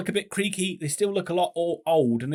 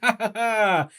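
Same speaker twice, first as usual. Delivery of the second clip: gloating laugh; 4 semitones higher than usual. Pretend. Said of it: "quite a lot of joy to say".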